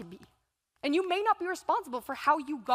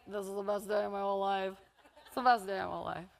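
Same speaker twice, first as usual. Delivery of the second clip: siblings gushing; 6 semitones lower, 4 dB quieter, faster than usual. Retold or imitated. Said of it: "They were all just saying".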